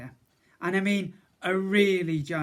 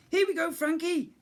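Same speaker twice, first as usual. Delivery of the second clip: high, louder puffing voice; huffing cook; 13 semitones higher, 4 dB louder than usual. A narrator's reading. Cook to boy on her back, high huffing. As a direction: puff it over your shoulder. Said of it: "Nancy huffed".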